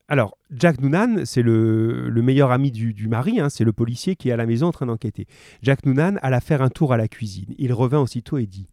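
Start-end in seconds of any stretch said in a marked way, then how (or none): 5.6-8.7 measured read-aloud storytelling; story narration. A narrator's reading. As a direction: read it out evenly to listeners.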